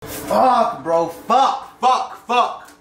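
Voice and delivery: high strained swearing in pain; mouth burning from spicy food. Real, not acted. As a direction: curse through the burning heat.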